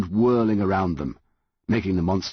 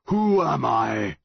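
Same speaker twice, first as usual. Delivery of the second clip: slow, booming, higher and louder; a monster's slow thundering demand; louder monster roar; 6 semitones higher, slower than usual. A narrator's reading. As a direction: roar the question at the boy. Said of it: "its voice getting louder".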